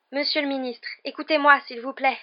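put-on high, pleading girl; imploring. A narrator's reading. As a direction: beg the minister to listen. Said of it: "d'un air implorant". (ton implorant)

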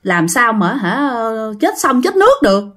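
mild grumble rising into protest; grumbling. Acted. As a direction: complain under your own steam, mildly put out. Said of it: "Ông Hải cũng cằn nhằn nói". (cằn nhằn, hơi bực)

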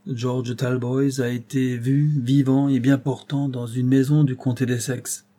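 slow, hard accusing voice; Robert pressing the old man with a pitiless accusation. Acted. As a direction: lay the charge down without mercy. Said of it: "la voix accusatrice et sans pitié".

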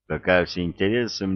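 plain reading voice

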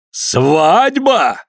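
резко выкрикнуть выше; вскрикнуть от возмущения; гневный крик. A narrator's reading. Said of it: "крикнул Иван Максимыч". («Свадьба!» — гневный возглас отца)

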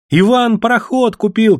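high, loud excited shout; children shouting. A narrator's reading. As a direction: yell the news running off. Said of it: "кричали ребятишки".

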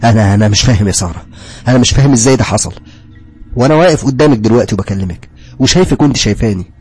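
distraught pleading. Acted. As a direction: beg her to explain, distraught. Confused pleading to Sara.

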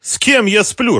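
high, loud angry retort. A narrator's reading. Mara snapping back at the thug, high and angry. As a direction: throw the accusation back at him. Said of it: "разозлилась Мара".

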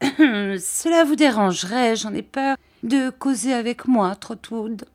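lightly voiced gentle old man, hesitant; timid old Mr Dick. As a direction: shyly ask permission, lightly voiced.

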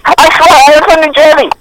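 put-on high-pitched indignant Arab accent. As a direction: protest in a mock Arab accent. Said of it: "why are you speaking like that".

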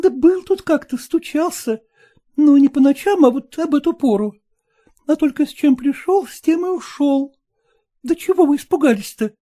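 whisper. A narrator's reading. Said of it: "прибавила Василиса шёпотом".

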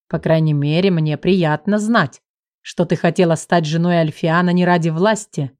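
low, relaxed teasing male voice; teasing husband. Acted. The husband teases his wife, lightly voiced low and amused. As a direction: gently rib her in a low voice.

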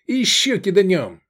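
high, keen call; eager, excited. A narrator's reading. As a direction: urge them on with relish. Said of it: "азартно сказал Эдик".

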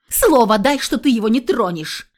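loud, insistent demand; girl demands a promise from the guardian. Acted. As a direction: insist he gives his word. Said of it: "потребовала я".

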